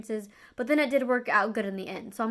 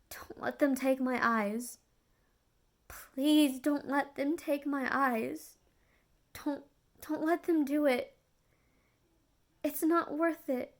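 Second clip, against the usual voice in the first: tearful pleading whisper; 3 semitones higher, slower than usual. Retold or imitated. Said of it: "I'm bawling".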